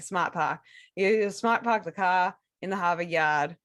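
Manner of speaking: dropped-R Boston accent. Shown as a demonstration. Host demonstrates real Boston accent for co-host. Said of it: "'cause a real Boston accent".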